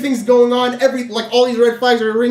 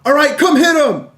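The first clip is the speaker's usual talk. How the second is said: raised, drawn-out demand; retold anger; 4 semitones higher than usual. Angry at his recording friend, he demands help, retold raised call. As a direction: call your friend over, higher and insistent. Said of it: "I start getting angry".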